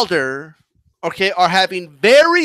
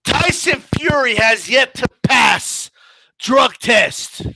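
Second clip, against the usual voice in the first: mock headline; 4 semitones higher than usual. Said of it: "this is like saying".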